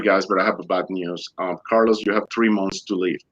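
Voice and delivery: low, softened delivery of bad news; grave bad news. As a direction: break it to them gently, voice dropping. Doctor breaks bad news.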